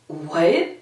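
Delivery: mock stunned question; retold "can't believe it" reaction; disbelief. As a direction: ask it as if unable to believe it. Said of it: "almost in disbelief".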